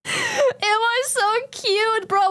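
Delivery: slow high gush; high drawn-out aww. Real, not acted. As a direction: coo over how cute. Squealing over cute.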